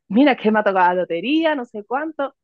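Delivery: fast, bright, rising lottery news; happy rush of good news; excited news. Shown as a demonstration. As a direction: gush it out like you just won. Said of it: "la primera vez que te he puesto este ejemplo".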